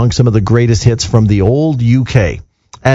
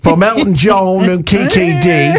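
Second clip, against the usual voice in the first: put-on English accent; 3 semitones higher than usual. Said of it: "classy English voice or ... the dodgy end".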